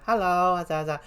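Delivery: put-on young voice. Shown as a demonstration. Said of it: "just a kinda young voice".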